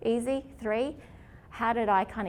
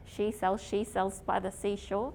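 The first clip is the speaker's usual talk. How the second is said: tongue twister. Shown as a demonstration. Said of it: "Who likes tongue twisters?".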